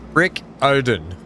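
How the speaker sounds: Brick Odin in an Australian accent, slowly. Shown as a demonstration. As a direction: drawl Brick Odin the Aussie way. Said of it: "pronouncing it with my Australian accent".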